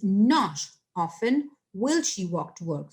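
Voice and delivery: Not often spaced out slowly at the front; slow, deliberate weight on Not often; emphatic inversion. Shown as a demonstration. Teacher turning the sentence around, slow stress on Not often. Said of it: "that becomes".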